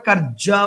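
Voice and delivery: "কার্যা" slowly, with the জ held as two; doubled জ. Shown as a demonstration. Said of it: "এটার উচ্চারণটা যদি করি". ("কার্যা"-তে জ দ্বিত্ব করে টেনে বলা)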